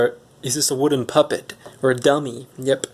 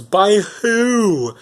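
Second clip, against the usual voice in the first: higher, demanding ogre question; Shrek; 8 semitones higher, 3 dB louder than usual. Retold or imitated. Ogre demands to know who forced them, high swooping question. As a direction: swoop the pitch up in mock outrage. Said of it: "And then Shrek goes".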